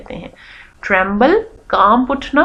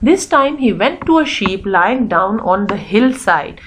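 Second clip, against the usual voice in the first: measured, expressive storybook reading; story read-aloud; much slower than usual. Acted. Teacher reading a sheep story to pupils, storytelling. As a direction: read it out slowly for young pupils.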